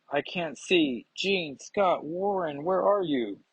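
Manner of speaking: understated acted alarm, voice lifted; mild panic. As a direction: call out for missing friends, lightly panicked. Bobby panics as he melts away.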